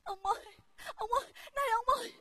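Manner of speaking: fast pleading sob; tearful pleading calls; crying. Acted. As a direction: beg through tears. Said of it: "đừng khóc nữa".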